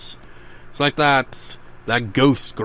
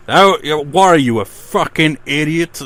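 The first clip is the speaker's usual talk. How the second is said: mock outraged yell; 5 semitones higher, 10 dB louder than usual. Mocking the rude teacher.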